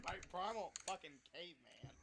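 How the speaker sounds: loud grunting caveman voice; primal caveman. Pretend. Gamer hamming up a caveman voice to his friends. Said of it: "my speech pattern went from educated person to fucking caveman".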